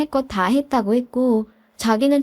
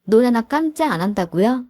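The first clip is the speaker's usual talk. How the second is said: incredulous echo. Retold or imitated. Daughter-in-law repeating mother-in-law's threat, incredulous. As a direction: echo it back as a rising question. Echoes the threat back in disbelief.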